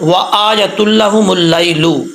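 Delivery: slow recited verse, lips rounded on व; Quran recitation. Shown as a demonstration. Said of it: "यहाँ पर वाओ को पढ़ते वक्त होंठ गोल करेंगे". (धीमी तिलावत)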